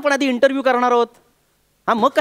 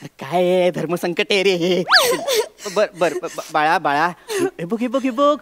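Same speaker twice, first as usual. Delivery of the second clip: soft apology; 5 semitones lower, 3 dB quieter than usual. Real, not acted. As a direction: gently win back the crying daughter. Father softens, apologizes to child.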